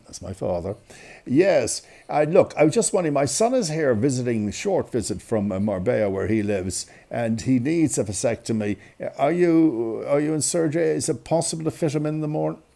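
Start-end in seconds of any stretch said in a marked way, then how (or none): 1.3-12.6 lightly imitated mother on the phone; businesslike telephone manner, a touch put on; doctor's voice. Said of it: "the doctor's voice on the phone".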